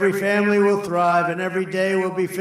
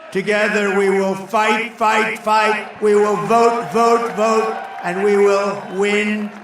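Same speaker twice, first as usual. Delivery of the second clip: rally speech. Real, not acted. Crowd-rousing chant at rally.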